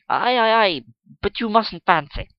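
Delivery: loud, triumphant aye aye aye; elated cry. Acted. Gentleman triumphantly cutting off the girl, elated. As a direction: pounce on his point with glee. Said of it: "cried the gentleman, quite elated".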